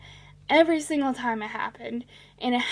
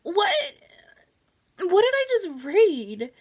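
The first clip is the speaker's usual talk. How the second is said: high, startled "What?" then a whispered question; baffled reader, breath gone; stunned disbelief; 6 semitones higher than usual. Retold or imitated. Reader reacting to the abrupt ending, stunned whisper. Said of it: "you're just like".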